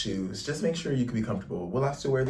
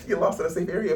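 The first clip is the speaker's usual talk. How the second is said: laughing; 7 semitones higher, 3 dB louder, faster than usual. Real, not acted. Repeats joke laughing.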